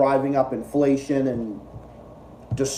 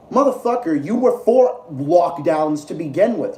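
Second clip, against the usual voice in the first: sudden high, loud angry shout; angry outburst; 4 semitones higher, 3 dB louder than usual. Real, not acted. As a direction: blurt it out in real exasperation. Ranting angrily at Kyle's video.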